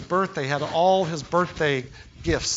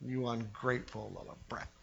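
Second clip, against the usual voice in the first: hissed scolding; 5 semitones lower, 15 dB quieter than usual. Pretend. Imagined scolding of spoiled brat.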